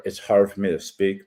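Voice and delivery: slurred speech from a swollen tongue. Real, not acted. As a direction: talk around a swollen tongue. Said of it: "I slur my speech a lot just 'cause my tongue is, uh, swollen".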